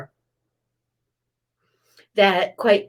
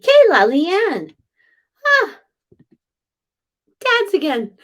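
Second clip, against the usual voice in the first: excited call; 10 semitones higher, 8 dB louder, slower than usual. Real, not acted. Excited greeting of the dad's spirit.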